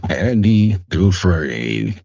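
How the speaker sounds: mock-solemn voice-over; Morgan Freeman. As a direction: stretch the name like a storyteller. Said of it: "sound like Morgan Freeman".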